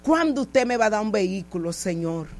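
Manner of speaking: low, subdued private prayer; retold plea to God. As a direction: plead softly with the Lord, voice sinking. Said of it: "le dije así al Señor".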